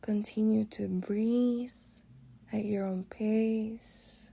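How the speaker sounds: calm guided meditation with long pauses; relaxing meditation voice. Real, not acted. Guide leading listeners through breathwork and body relaxation, relaxing. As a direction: ease them unhurriedly through each breath, letting phrases settle. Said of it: "My voice is gonna shift to a little more relaxing".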